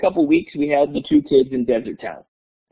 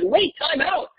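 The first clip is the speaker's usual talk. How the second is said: high, playful teacher double take; teacher teasing his class about math; mock surprise; 13 semitones higher, slower than usual. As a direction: pretend to be shocked. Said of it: "And I said".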